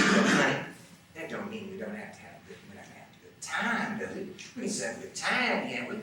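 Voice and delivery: high, soft woman's cajoling; Dixie's coaxing voice. Acted. Dixie reassuring the boy, soft coaxing.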